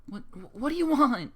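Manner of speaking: high, tearful plea from a scared mother; a hint of a frightened pony mare; on the verge of tears. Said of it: "she said on the verge of tears".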